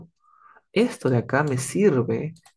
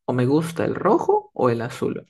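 firm either-or in the usual pitch; limited choice. Acted. Student naming the only two colours liked, definite. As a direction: set out just two options. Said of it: "a mí me gusta solamente estos dos colores".

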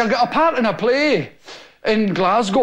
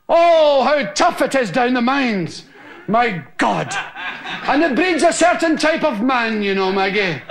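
higher, theatrical melodrama; hammy stage actor; 5 semitones higher than usual. Retold or imitated. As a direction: declaim it like a ham actor. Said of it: "the guy was saying".

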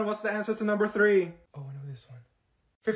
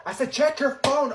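higher, louder, exasperated; out loud at last; 6 semitones higher, 8 dB louder than usual. Acted. Student fed up with whispering, blurting to friend.

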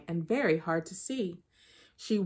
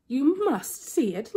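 insistent Anansi; 6 semitones higher, 3 dB louder, slower than usual. Acted. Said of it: "Anansi began to get angry".

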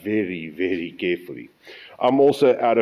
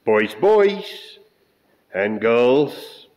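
calling out; 2 semitones higher, 4 dB louder, much slower than usual. Real, not acted. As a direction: call them in, sing-song. Calling the viewers in greeting.

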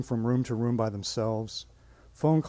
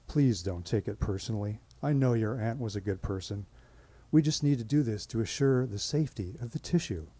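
soothing. Retold or imitated. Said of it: "I would diffuse them like this".

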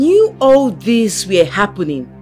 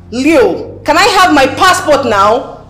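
angry demand; 3 semitones higher, 4 dB louder, slower than usual. Acted. Demanding passport back from husband.

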